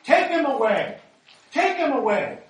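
loud, high furious crowd yell; crowd shouting. A narrator's reading. Crowd demands crucifixion from Pilate, furious shout. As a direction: scream for his crucifixion. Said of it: "they shouted".

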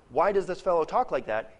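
sharp rebuking question; pointed rebuke, not a real question. Shown as a demonstration. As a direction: say it as a scolding. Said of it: "is a rebuke".

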